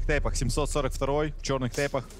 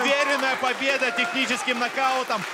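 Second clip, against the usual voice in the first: booming fighting game announcer; 5 semitones higher than usual. Acted. Announces the winner and show.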